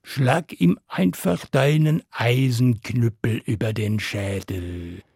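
low, sly scheming voice of a dragon mother. Acted.

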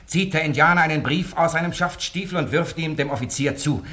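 usual speaking voice

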